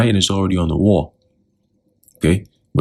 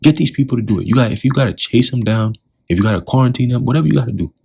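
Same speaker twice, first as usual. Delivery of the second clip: higher-pitched, pressing orders, acted out; insistent, raised-pitch urging; urgent orders; 5 semitones higher than usual. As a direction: play the pushy enforcer urging them on. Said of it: "they're trying hard, quick, like".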